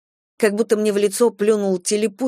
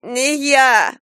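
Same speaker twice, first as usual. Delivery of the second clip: laughing protest; 6 semitones higher, 4 dB louder than usual. A narrator's reading. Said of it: "простонала Нина, хохоча".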